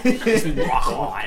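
laughing through words; slow, amused laugh while talking. Real, not acted. Joking, laughing.

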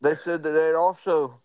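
hammed-up Biden boasting about free ice cream; Joe Biden voice. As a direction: play a pleased old man with ice cream. Voicing Biden.

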